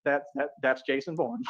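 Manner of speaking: a hint of a panicked agent; stunned movie quote. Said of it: "he swallows real quick and he says".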